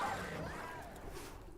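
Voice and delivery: breathy laugh up high; short unvoiced giggle; high airy laugh. Real, not acted. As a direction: laugh at the absurdity. Laughs at drained battery story.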